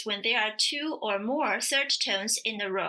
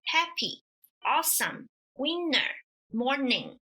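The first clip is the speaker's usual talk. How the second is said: "happy", "awesome", "winner", "morning" with light last syllables; unstressed second syllable; 2 semitones higher than usual. Shown as a demonstration. Teacher comparing English, "happy" to "morning" ending lightly. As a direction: stress the start of "happy", "awesome", "winner", "morning", relax the end. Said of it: "pronounce it soft and light".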